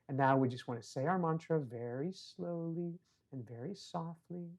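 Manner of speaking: soft voice, fading further to the last word; hushed meditation guide. Retold or imitated. Child leads an imaginary Zoom meditation class, hushed. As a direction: imitate a child meditation teacher, very softly.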